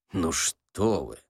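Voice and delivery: low, slow, easy reassurance; good-natured. A narrator's reading. Ostap reassuring the old man, good-natured and low. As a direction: brush it off genially, low and unhurried. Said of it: "добродушно сказал Остап".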